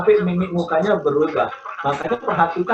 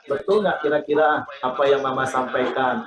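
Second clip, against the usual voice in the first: gentle, kind. Shown as a demonstration. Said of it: "itu kan lebih enak kalimatnya".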